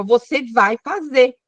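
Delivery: slow, measured mock command; demanding. Wife giving her husband a look and an order, mock demanding. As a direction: spell out an order with mild insistence. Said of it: "à entonação da nossa voz".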